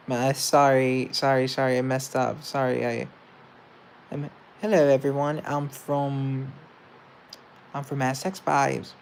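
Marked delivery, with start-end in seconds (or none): 4.1-8.9 mock Essex accent, lightly put on. Shown as a demonstration. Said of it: "This is my Essex accent".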